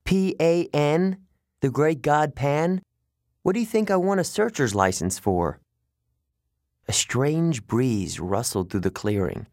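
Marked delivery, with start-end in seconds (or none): 0.0-5.6 exasperated satyr. Acted. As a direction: spell it out, exasperated. Grover spells out the name.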